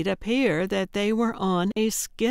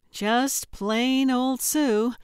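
drawn-out disdain; 5 semitones higher, much slower than usual. Acted. Sue mocks her own name.

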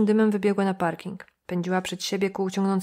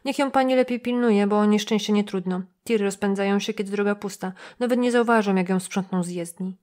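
nosy motel clerk complaining, slightly raised; suspicious receptionist. Acted. Receptionist warns. (lekko zagrany zrzędliwy recepcjonista)

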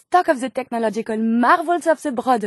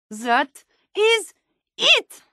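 excited; 7 semitones higher, much slower than usual. Acted. Sudden eureka discovery exclamation.

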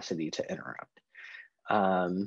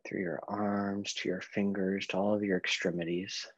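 guided meditation. Real, not acted. Leads a breathing meditation.

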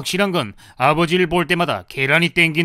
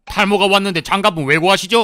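higher, carrying clerk voice; indiscreetly loud; 5 semitones higher, 4 dB louder than usual. Acted. Clerk answering a shy balding customer, indiscreetly loud. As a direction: announce it for everyone to hear. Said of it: "조금만 작게 말씀해 주시지".

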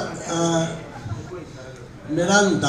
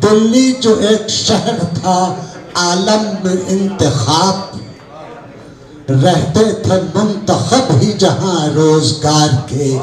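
poetry recitation. Acted. Poet recites Mir's verses to the mushaira audience, measured recitation. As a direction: recite the couplets with deliberate pauses.

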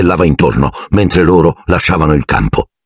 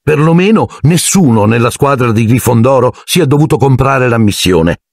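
put-on higher, sharp girl's voice; 6 semitones higher than usual. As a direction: cut back at Malfoy. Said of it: "commentò Hermione aspra". (Hermione aspra, voce femminile)

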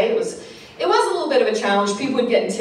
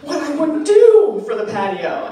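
sarcastic envy; 5 semitones higher than usual. Retold or imitated.

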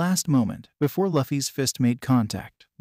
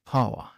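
delighted moan. Acted. Hancock swooning over Luffy on the snail, delighted moan. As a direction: melt into a dreamy moan. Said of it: "moaned in delight".

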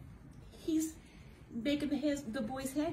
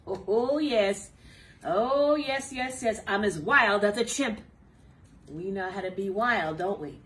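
loud rowdy excitement; loud wild monkey fun; wild excited; 3 semitones higher, 9 dB louder than usual. Acted. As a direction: go wild like a chimp. Acting out wild chimps.

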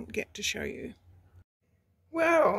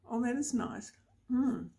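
chewing while talking; mouth full; 3 semitones higher, 4 dB quieter than usual. Real, not acted. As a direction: speak around a bite of food. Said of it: "Sorry, I can't speak".

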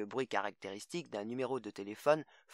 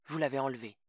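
usual speaking voice

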